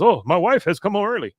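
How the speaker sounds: high, loud mock alarm; alarmed exclamation. Husband hears wife's car honk outside, high alarmed outburst. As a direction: act out a husband caught out, pitch jumping.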